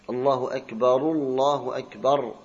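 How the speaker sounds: أكبر ending in akbaru, the ra voweled with u; ra with damma. Shown as a demonstration. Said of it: "يحركه بالضمة". (الله أكبرُ بضم الراء)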